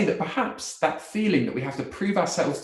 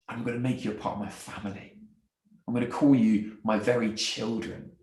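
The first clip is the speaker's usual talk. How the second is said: tag; 3 semitones lower, faster than usual. Acted. God adopting those who rejected him.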